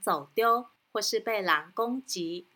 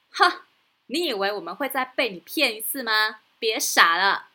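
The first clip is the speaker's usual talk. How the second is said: scornful; 4 dB louder than usual. Acted. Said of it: "农夫说".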